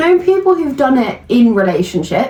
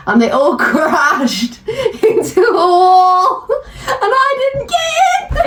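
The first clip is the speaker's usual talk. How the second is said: laughing; 6 semitones higher, much slower than usual. Real, not acted. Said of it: "laughing through the story".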